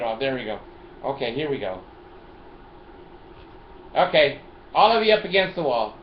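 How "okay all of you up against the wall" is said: louder commanding cop voice; playful police command; mock cop order. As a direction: order them like a pretend officer.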